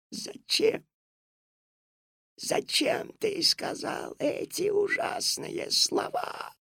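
high, slow breathy whisper. Acted. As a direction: whisper it reproachfully. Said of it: "прошептала госпожа Жадность".

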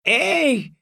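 high, drawn-out furious shout; furious yell. Acted. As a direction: bellow it in a rage. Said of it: "в ярости завопила".

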